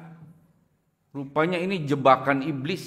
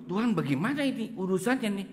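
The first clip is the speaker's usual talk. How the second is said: bewildered; 3 semitones higher than usual. Retold or imitated. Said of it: "saya juga bingung".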